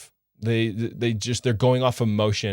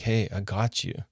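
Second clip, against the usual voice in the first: tender reassurance. Shown as a demonstration. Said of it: "I look into her eyes and be like".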